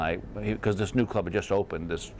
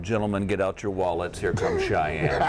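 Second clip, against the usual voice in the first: strip club DJ announcement; 3 semitones lower than usual. Retold or imitated. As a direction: announce the next dancer like a club DJ. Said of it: "my D J involved the term".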